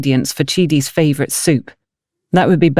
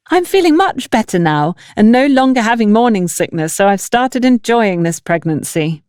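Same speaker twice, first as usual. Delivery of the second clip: a touch higher, chatty pregnant sister-in-law; light hint of a cheerful woman sharing good news; lightly voiced Bridget; 4 semitones higher than usual. Bridget tells Antonia about her pregnancy, lightly raised and chatty.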